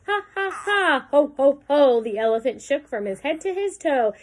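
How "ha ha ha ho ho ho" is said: loud, separated ha-has and ho-hos; acted belly laugh. A narrator's reading. Elephant shakes with laughter, acted ha-ha and ho-ho. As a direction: perform a big storybook laugh. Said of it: "He ho-hoed and ha-ha'd".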